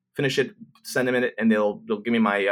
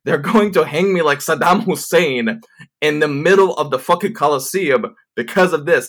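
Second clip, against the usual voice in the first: high, emphatic mock despair; acted freak-out; 4 semitones higher, 5 dB louder than usual. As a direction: wail it like you're doomed. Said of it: "I'm freaking out".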